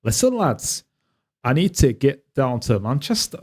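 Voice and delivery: clumsy attempt at a Newcastle accent; half-hearted Geordie impression, not quite landing; bad Newcastle accent. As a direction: have a poor go at Geordie. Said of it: "I can't do a Newcastle accent".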